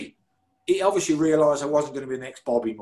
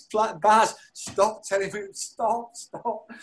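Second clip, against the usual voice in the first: higher mock-helpless pleading; imitating tearful listeners; 6 semitones higher, slower than usual. Listeners beg him to stop the story, imitated high and pleading. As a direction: beg them to stop, as if overcome. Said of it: "people have been crying and saying".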